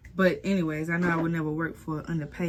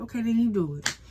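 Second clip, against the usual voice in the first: irritated; 5 semitones higher, 4 dB louder than usual. Retold or imitated. Irritated reply.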